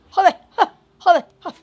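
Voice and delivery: loud high exasperated shout; frustrated yell. Real, not acted. Gamer losing a battle, yelling in frustration. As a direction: blurt it out furious at the game.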